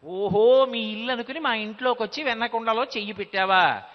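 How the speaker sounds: gopika catching the thief, half-amused; mock indignant surprise. Gopika catches Krishna red-handed. (పట్టుకున్న గోపిక ఆశ్చర్యంగా నిలదీయడం)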